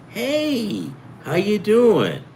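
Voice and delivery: high chirpy mock-friendly greeting; cheery nice-guy greeting. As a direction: play the overly nice guy saying hi. Acting out the pleasant nice guy.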